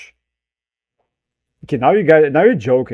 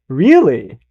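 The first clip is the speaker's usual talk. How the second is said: mocking Hela. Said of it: "She's, like, mocking him".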